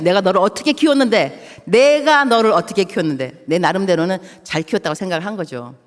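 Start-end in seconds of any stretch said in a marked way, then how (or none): 0.0-1.6 hurt mother's reproach to her son, stress on 키웠는데; 키웠는데 falling heavily at the end; angry reproach. Retold or imitated. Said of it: "내가 이제 화가 났죠". 1.6-3.4 the same line repeated louder, opening 내가 hit hard; 내가 punched, building anger toward the son; louder angry reproach. Retold or imitated. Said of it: "내가 이제 화가 났죠".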